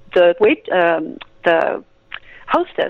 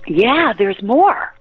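slow emphatic; much slower than usual. Real, not acted. Emphatic answer to question.

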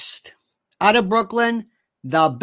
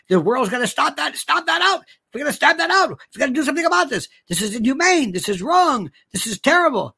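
mildly hammed-up indignation, voice raised in pitch; mock outrage; 4 semitones higher than usual. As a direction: act out the world protesting. Acts out world's outraged reaction.

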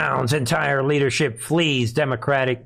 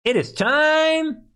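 sarcastic; 4 semitones higher, slower than usual. Acted. Sarcastic setup of the joke.

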